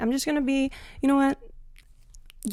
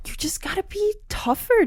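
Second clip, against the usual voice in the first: sudden whispered aside; conspiratorial whisper to the guys; 10 semitones higher than usual. Pretend. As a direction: whisper "you just gotta be tougher" like a secret tip. Aside to men, dropped voice.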